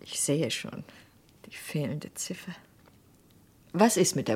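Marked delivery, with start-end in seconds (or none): 0.0-2.5 hushed, to herself, voiceless; whispered realization. Acted. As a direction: whisper it as the penny drops. Realizing the missing digit. (geflüstert, zu sich selbst)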